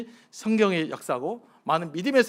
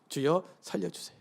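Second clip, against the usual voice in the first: simple honest plea; 4 dB quieter than usual. Shown as a demonstration. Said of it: "이렇게 기도해야 돼요".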